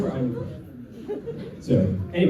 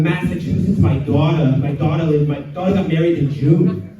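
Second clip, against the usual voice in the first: put-on biting Massachusetts accent, R's dropped; Boston-area accent with a bite. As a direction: bite the words like a Boston local. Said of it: "It's kind of like a bite".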